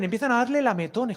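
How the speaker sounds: ordinary talk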